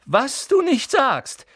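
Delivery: high, slow sneer; mock scorn. Malfoy sneering back at Harry, slow. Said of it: "versuchte ein höhnisches Grinsen".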